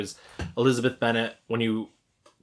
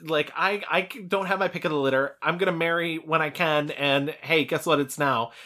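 higher, sassy venting; hammed-up little-sister protest, pitched up; mock defiant outburst; 6 semitones higher than usual. Podcaster loosely acts Lydia telling Elizabeth off, mock defiant.

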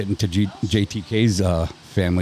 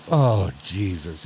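imitating mom's exasperation; 3 semitones lower, 3 dB quieter, much slower than usual. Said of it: "She goes".

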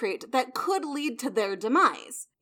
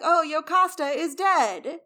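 higher, louder, drawn-out stage announcement; mock messenger; 5 semitones higher, 5 dB louder, slower than usual. Messenger coming on stage to report the death, theatrically mock-dramatic. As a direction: announce the death slowly, hammed up.

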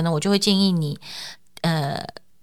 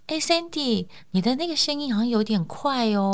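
softer, easy and unhurried; gentle and slowed; 5 semitones higher, 5 dB quieter than usual. Shown as a demonstration. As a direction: ease off and ask gently. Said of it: "所以我就要放慢速度".

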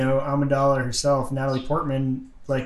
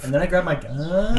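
put-on valley girl; 4 semitones higher than usual. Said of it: "Did everything end in a question?".

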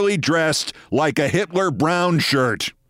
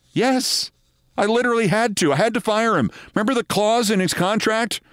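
higher-pitched, insistent self-justification; acted exasperated executive; 4 semitones higher than usual. Executive justifying a firing to his boss, exasperated. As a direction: plead the case, imitating a defensive subordinate. Acting Sorensen defending the firing.

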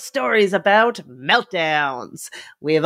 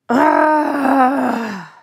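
mock wail; 4 semitones higher, 5 dB louder than usual. Wanting her own toddler meltdown.

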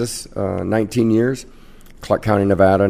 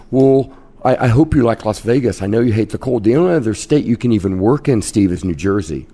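mildly irritated mother; a touch of exasperated mom; annoyed mom; 3 semitones higher, 3 dB louder than usual. Retold or imitated. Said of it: "she was pissed".

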